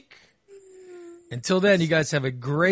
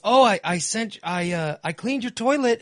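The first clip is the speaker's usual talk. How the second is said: voicing his wife; 7 semitones higher, 4 dB louder than usual. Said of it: "She goes".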